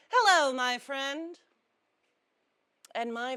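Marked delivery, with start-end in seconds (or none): 0.1-1.4 louder, higher greeting in a Jewish accent. Shown as a demonstration. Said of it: "Jewish accents really help".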